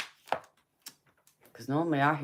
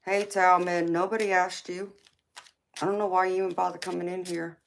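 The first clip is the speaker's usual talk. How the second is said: mock scolding; 4 semitones higher, faster than usual. Real, not acted. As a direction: tell him off with sass, the last line quick. Scolding a chatter on stream.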